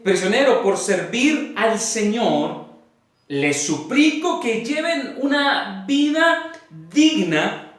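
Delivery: slow, deliberate reading with weighted pauses; measured Bible reading to a congregation; solemn scripture reading. Acted. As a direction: read the verse out phrase by phrase, letting each land. Reads scripture aloud to congregation.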